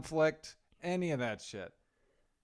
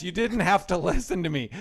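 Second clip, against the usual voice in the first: laughing retelling; 4 semitones higher, 5 dB louder than usual. Retold or imitated. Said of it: "that was her defense".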